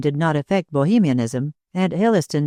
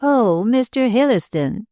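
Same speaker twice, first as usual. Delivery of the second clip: higher, chattering lady's voice; babbling society hostess; 7 semitones higher than usual. A narrator's reading. Hostess prattling to Claude about lawsuits, higher chatter. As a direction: prattle on, pleased with yourself.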